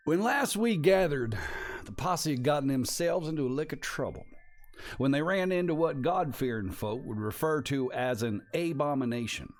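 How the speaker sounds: folksy Western narrator recap; announcer voice. Acted. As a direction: spin the tale like an old frontier storyteller. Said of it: "let me get my announcer voice on".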